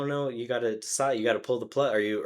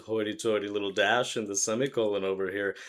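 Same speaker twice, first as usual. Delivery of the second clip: mock snooty voice; 3 semitones lower than usual. Mocking how snobs see the dash, in a snooty voice. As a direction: put on a prissy, snooty tone. Mocking snobby view of dashes.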